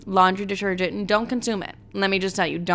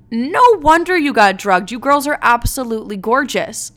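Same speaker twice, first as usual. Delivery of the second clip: gushing mom; 4 semitones higher, 5 dB louder than usual. Retold or imitated. Mom's gushing compliment voiced.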